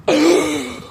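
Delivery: high, loud gasp; sharp noisy intake before a boast. Real, not acted.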